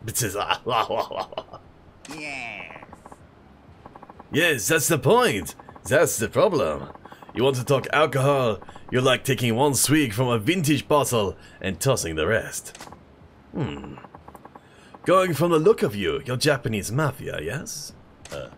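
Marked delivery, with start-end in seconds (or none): 4.3-12.8 put-on French accent. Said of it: "I don't know what accent this is". 15.1-17.9 put-on French accent. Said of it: "I don't know what accent this is".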